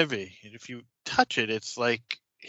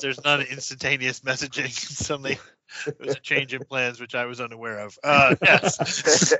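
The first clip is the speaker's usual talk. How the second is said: talking between bursts of laughter; amused, laughs breaking into the sentence; real laughing. Real, not acted. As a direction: explain it while fighting off giggles. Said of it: "sorry, I'm laughing".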